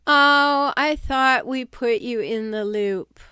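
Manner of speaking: loud, bright "Oh" then breezy fake innocence; mock innocent surprise. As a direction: play the faux-surprised insider. Mimicking a fake-innocent colleague.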